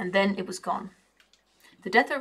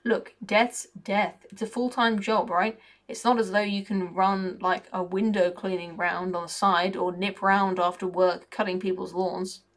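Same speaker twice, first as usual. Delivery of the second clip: a lightly voiced cocky, grumbling raven; mildly put-on raven voice with a working-class grumble. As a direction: moan like a sour bird who feels left out.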